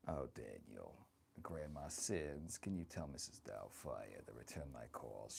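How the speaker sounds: lightly voiced doting old grandma; sassy old granny, chatty and fond; grandma character. Streamer playing grandma, chatting with her viewers.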